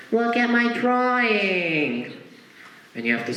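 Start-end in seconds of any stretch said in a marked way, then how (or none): 0.1-2.1 put-on much higher, slow eager child voice; a proud little kid showing off. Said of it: "he's like".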